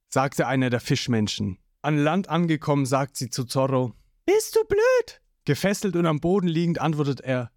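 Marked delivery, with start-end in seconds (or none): 4.2-5.2 much higher, sharp scold. A narrator's reading. Nami scolding Zorro on the shore, high angry snap. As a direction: snap at him high and loud.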